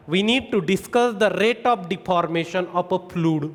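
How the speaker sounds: slow, word-by-word answer for notes; slow exam-answer dictation. Shown as a demonstration. Teacher dictates answer line.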